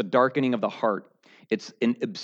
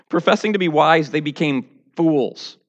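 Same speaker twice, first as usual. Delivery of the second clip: louder reread with a laugh; amused louder rereading of the scripture; 2 semitones higher, 4 dB louder than usual. Real, not acted. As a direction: laugh while repeating the verse.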